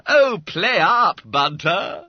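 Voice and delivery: loud, high, drawn-out urging; exhorting. Acted. Schoolmate to the reluctant fat boy, exhorting. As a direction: goad him to play fair. Schoolmate urges Bunter to honour deal.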